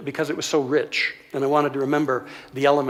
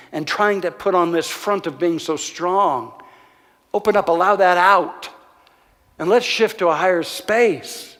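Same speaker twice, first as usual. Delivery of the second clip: urgent pleading counsel; 2 semitones higher, 3 dB louder, slower than usual. Retold or imitated. Pastor urging Ron to let go, rising and pleading. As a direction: press each stop harder until it bursts open.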